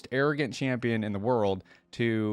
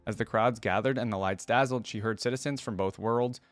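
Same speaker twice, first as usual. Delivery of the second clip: measured read-aloud storytelling voice; story narration. A narrator's reading. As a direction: read it out like a written biography. Reads champion biography aloud.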